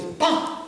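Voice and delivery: short, punchy sung-out "bum"; lively accent. Shown as a demonstration. Teacher demonstrating a lively-piece accent, sharp and punchy. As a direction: hit "bum" as a sudden burst. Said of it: "That accent in a lively piece of music".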